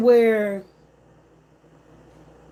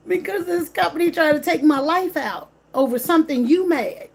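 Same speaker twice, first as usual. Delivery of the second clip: laughing through tears; 5 semitones higher than usual. Real, not acted. A wronged driver telling his viewers he is laughing through the pain. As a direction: laugh it off while half crying. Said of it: "so let me laugh".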